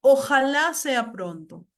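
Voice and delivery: slow, emphatic wish; wishful exclamation. Shown as a demonstration. Teacher giving an example of desire, wishful. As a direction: stretch it out as a demonstrated wish. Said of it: "Deseo, por ejemplo".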